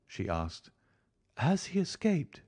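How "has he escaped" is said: high-pitched, worried woman; anxious woman's voice. A narrator's reading. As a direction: ask anxiously in a high female voice. Narrator voices anxious Mrs Stapleton.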